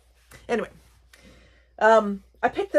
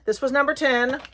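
ordinary talk, nothing marked

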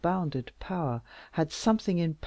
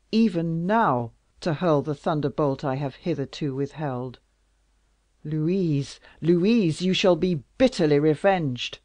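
loud, commanding royal fury; angry king; 7 dB louder than usual. Acted. King vowing vengeance for Louise, loud and furious. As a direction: thunder out threats of revenge.

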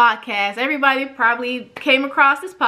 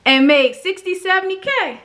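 excited reckoning; 5 semitones higher than usual. Retold or imitated. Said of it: "I said".

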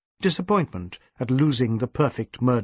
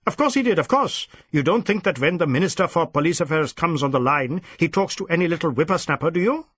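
scorn the inspector's naivety; scornful; 4 semitones higher, faster than usual. Acted. Superintendent belittling his inspector, scornful.

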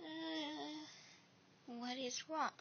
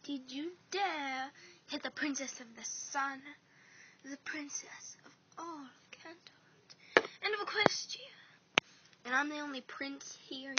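indignant; 6 dB louder than usual. Acted. Indignant prince defends wife.

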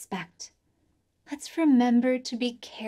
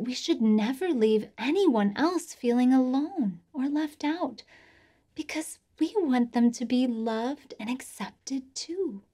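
put-on kids show host. Children's message host talking to kids.

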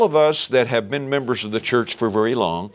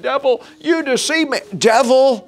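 imitated wailing; 10 semitones higher, 3 dB louder than usual. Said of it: "people that are crying and saying".

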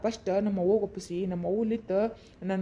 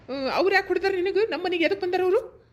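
asking through a laugh, higher; laughing disbelief; 7 semitones higher than usual. Acted. Man laughs in disbelief at her complaint about the neighbours. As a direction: laugh it off as you ask.

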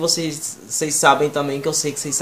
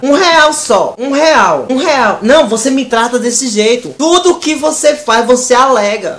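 higher, louder angry rant; stressed-out girlfriend; 6 semitones higher, 4 dB louder than usual. Acted. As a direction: blow up over a small debt. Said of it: "namorada estressada". (namorada estressada gritando por um real)

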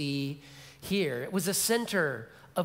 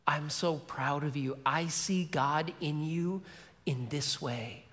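choked-up father; 4 semitones lower, 4 dB quieter than usual. Retold or imitated. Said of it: "the dad's starting to get choked up".

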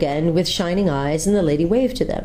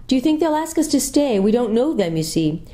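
put-on young girl's voice; 7 semitones higher than usual. A narrator's reading. Jill asks the lady.

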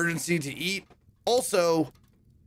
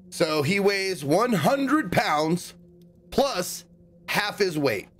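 thinking aloud; much slower than usual. Real, not acted. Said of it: "working out the riddle".

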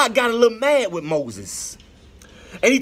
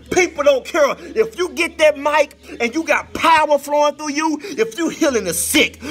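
preaching build. Acted.

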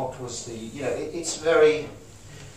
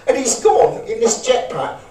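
much louder, much higher, thrilled; exhilaration demo; 7 semitones higher, 10 dB louder than usual. Shown as a demonstration. Acting out exhilaration for the room, loud and thrilled. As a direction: burst out in amazed excitement.

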